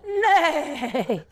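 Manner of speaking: playful imitated horse whinny; horse neigh. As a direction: let out a mock neigh. Imitates a horse after saying horse.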